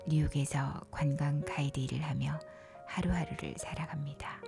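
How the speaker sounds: ordinary delivery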